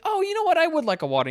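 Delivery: date. Retold or imitated. Woman on date asking for water, put-on high voice. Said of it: "And she's like".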